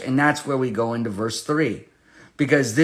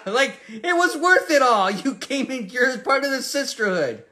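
excited; 11 semitones higher than usual. Retold or imitated. Excited aftermath of the joy.

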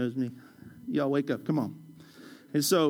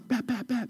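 higher, soft "bap" gun noises; rap-style ad-lib; 5 semitones higher, 5 dB quieter than usual. Pretend. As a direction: toss off playful rapper "bap" sounds. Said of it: "that's that rap guy in me".

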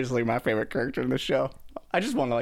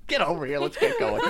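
mock ticked off; 4 semitones higher than usual. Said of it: "He's ticked off".

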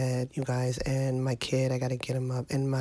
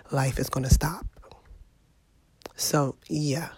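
resigned whisper. Real, not acted. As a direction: breathe it out, defeated.

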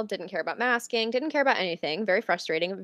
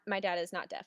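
sheepish; 7 dB quieter than usual. Real, not acted. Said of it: "I should not have said that".

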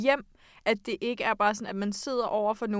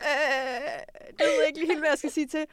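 imitated awkwardness; 3 semitones higher than usual. Acts stunned reply to sclerosis.

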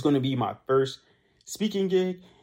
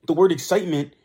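high excited pitch; 3 semitones higher, 5 dB louder, faster than usual. Shown as a demonstration. Podcaster showing listeners how excitement sounds, high and loud. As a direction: lift excitement up, louder and bright with energy. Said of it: "you would say with a high pitch".

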